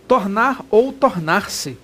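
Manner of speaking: Tornar ou tornar-se said slowly, each word drawn out; slow emphasis. Shown as a demonstration. Teacher drawing out Tornar ou tornar-se slowly for students. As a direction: drag out Tornar ou tornar-se so it sinks in. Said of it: "Tanto faz".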